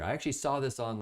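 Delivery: ordinary talk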